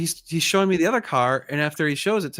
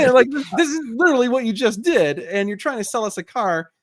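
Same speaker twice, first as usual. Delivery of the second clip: higher and louder, in disbelief; incredulous; 10 semitones higher, 5 dB louder than usual. Retold or imitated. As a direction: stress how blatant it was, higher and louder. Retelling the seller argument, incredulous.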